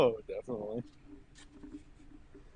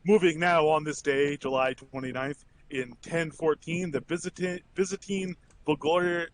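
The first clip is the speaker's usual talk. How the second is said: news read; slower than usual. Acted. Reads the daily news.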